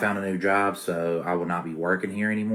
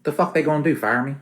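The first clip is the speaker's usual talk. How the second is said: defiant scoff; 10 semitones higher, 6 dB louder than usual. Acted. Worker scoffs at threat.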